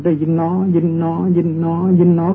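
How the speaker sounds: steady, level-pitched repeated noting; meditation noting. Shown as a demonstration. Monk demonstrating noting of hearing, even repetitive chant. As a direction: chant it evenly with a long หนอ.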